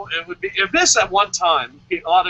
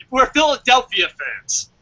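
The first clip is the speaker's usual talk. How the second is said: rowdy fan; 6 semitones higher, slower than usual. Pretend. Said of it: "give a reaction like we're fans".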